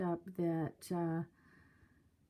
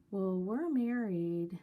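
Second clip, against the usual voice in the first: giddy; 3 dB louder than usual. Retold or imitated. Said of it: "they were very, um, giddy".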